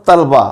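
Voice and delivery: तलबा as tal-ba, ल without a vowel; mispronunciation demo. Shown as a demonstration. Teacher quoting a second faulty form, तलबा as tal-ba. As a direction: say तलबा in two syllables, tal-ba. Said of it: "इस लफ्ज़ का तलफ़ुज़ गलत है".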